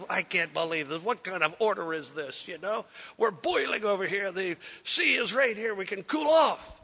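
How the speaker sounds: starts grumbling, builds to a real shout; rising anger until he yells the last part; angry complaint. Retold or imitated. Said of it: "He was so mad".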